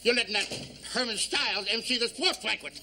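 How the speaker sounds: talking through Novocaine; numb mouth. Acted. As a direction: numb lips, words slurred. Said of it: "How come you're talking so funny?".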